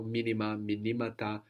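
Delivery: MInima, then miNImata; accent moves. Shown as a demonstration. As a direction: shift the stress one syllable along from "Minima" to "minimata". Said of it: "we move the accent".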